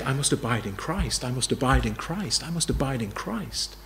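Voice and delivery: a gentle, lightly voiced prayerful refrain; settled self-talk. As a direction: repeat it quietly, resting in trust. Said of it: "to go home and be saying".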